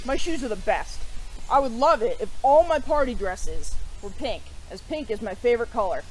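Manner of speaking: put-on lively read-aloud voice for children; storybook narration. A narrator's reading. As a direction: tell the pixie story to kids. Reads picture book aloud.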